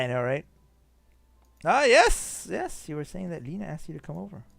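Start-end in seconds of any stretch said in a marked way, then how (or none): 1.6-4.4 put-on light German-accented game character. Streamer reading the engineer's reply, German accent. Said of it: "I give him a German accent".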